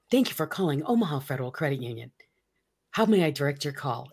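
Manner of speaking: brisk switchboard greeting; phone operator voice. Retold or imitated. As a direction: answer like a bank receptionist. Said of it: "It was me".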